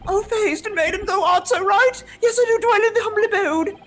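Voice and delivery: theatrical Shakespearean voice. Acted.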